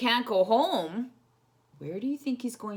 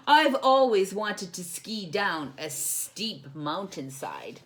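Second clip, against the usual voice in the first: smiling; 5 dB louder, slower than usual. Acted. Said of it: "he said with a smile".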